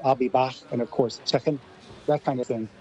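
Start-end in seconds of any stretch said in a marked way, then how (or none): 0.0-0.5 Scouse accent. Shown as a demonstration. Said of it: "I liked that American Scouse accent there". 1.3-1.6 Scouse accent. Shown as a demonstration. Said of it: "I liked that American Scouse accent there".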